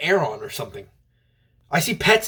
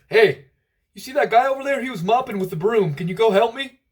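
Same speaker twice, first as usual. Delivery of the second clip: high-pitched, sing-song janitor voice; janitor impression; 9 semitones higher than usual. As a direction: play a janitor calling for help way up high. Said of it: "the janitor came in and he was like".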